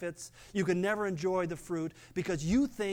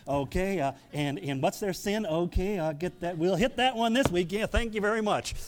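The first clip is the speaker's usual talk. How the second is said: brisk, louder mock phone operator; hammed-up pastor jotting down orders, a bit louder; pastor taking sin requests; 5 dB louder than usual. Pastor mocks taking congregants' sin tips by phone, brisk and louder. I'd be on the phone all week.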